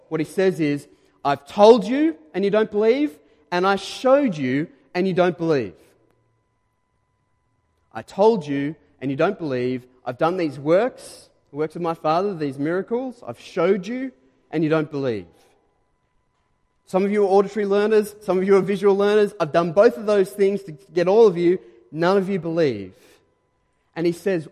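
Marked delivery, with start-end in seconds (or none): 1.2-15.2 exasperated Jesus. Acted. Preacher voicing Jesus' frustrated retort. 16.9-22.9 emphatic preaching. Real, not acted. Preacher driving point home loudly.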